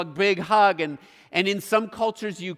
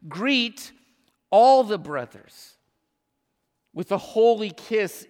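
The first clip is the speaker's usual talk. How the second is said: preached verse, all punched loud; proclaiming the verse; 3 semitones higher, 5 dB louder than usual. Shown as a demonstration. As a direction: declare the command out to the room.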